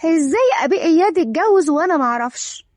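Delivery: mildly shocked question; a touch of disbelief. Acted. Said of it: "لورا بصدمة".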